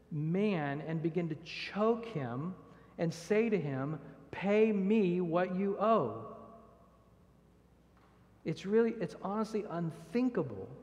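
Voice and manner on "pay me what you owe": louder, slow, threatening demand; slow angry demand, voice raised. Acted. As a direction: grab him and demand the money, slowly and loud. Servant choking a fellow servant.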